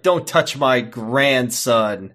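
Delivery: Graham said very slowly, every word weighted; slow firm warning. Retold or imitated. Graham to the man slapping his grandson, slow firm warning. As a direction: drag it out like a grandfather drawing a line. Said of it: "Graham's like".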